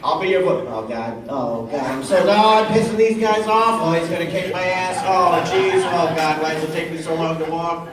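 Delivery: a hint of a fretful hunched fan; lightly voiced anxious con walker; nervous con walker. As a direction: mutter worried oh God lines while shuffling. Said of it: "do the serious one".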